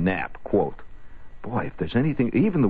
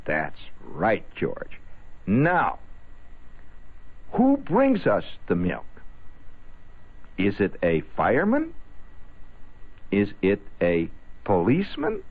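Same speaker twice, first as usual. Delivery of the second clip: teacher voice. Retold or imitated. Teacher quizzing again.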